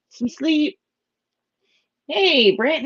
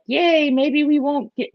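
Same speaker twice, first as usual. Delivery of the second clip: hopeful cheer; 10 semitones higher than usual. Retold or imitated. I was like.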